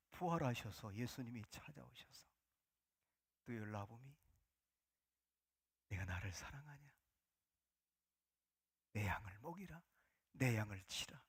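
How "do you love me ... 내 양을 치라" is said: soft, low tender whisper; hushed voice of Jesus. Acted. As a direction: speak it gently, almost breathed. Risen Jesus speaks to Peter. (나지막이 속삭이는 예수님의 음성)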